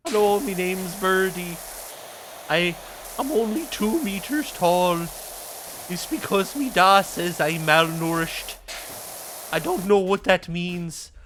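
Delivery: chirpy, cheeky urchin voice; a poor hungry kid begging for oats; lightly voiced starving urchin; street urchin Birdie. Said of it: "just riff on a random character".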